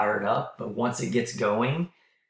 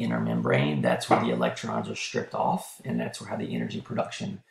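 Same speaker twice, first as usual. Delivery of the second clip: losing voice; 11 semitones lower than usual. Real, not acted. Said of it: "I'm starting to lose my voice".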